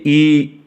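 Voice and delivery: ई held as a long, steady ee; long vowel. Shown as a demonstration. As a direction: stretch out ई on its own. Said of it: "ये जो आवाज़ जो लंबी हुई". (ई की लंबी आवाज़)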